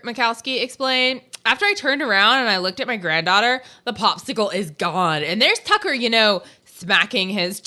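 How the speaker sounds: a hint of Valley girl quotes; lightly voiced Valley girl reading. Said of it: "I have to read this like a Valley girl".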